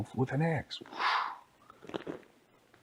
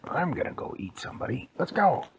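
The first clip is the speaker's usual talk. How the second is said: eager wolf; 5 semitones higher, 4 dB louder, faster than usual. Acted. Wolf rallies himself to hunt.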